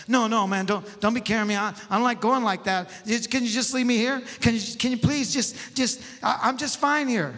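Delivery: acted-out fretful objection; complaining. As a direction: beg to be left alone. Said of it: "he's just complaining the whole way".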